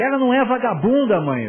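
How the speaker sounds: imitating an outraged teenage son; indignant son. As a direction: snap back at the mother in his defence. Son defending girlfriend against mother.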